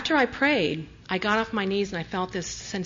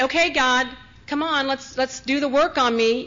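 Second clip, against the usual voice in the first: mock eager pep; 5 semitones higher, 4 dB louder than usual. Mock eager demand of God.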